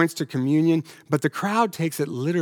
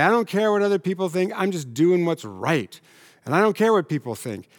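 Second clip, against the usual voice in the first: mock defiant stand, a bit faster at first; belligerent tone; 2 semitones higher than usual. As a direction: imitate a smug, judgmental Christian being defiant. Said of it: "there's this belligerence in the tone".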